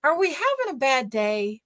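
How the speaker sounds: a lightly voiced, syrupy-nice "are we having a bad day"; a mildly sugary, patronizing question; mock sweet guide. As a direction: imitate a tour guide talking down kindly. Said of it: "in the nicest voice he can".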